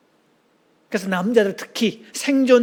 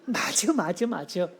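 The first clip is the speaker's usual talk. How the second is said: agreeable chiming in; 7 dB quieter, slower than usual. Shown as a demonstration. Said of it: "준비하시고 역할극 하기".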